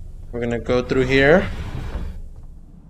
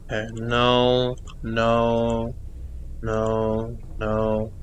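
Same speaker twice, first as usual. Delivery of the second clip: no, no, each softer, trailing to a hush; fading nos; 5 semitones lower, 9 dB quieter, much slower than usual. Real, not acted. Gamer fading out a string of nos. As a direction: quietly back away, voice dying off. Player backing away from something.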